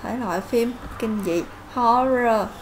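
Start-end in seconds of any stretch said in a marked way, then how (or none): 1.7-2.5 loud "horror" with HOR punched, falling; teacher stressing HOR in "horror"; stress first syllable. Shown as a demonstration. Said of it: "nhấn âm thứ nhất".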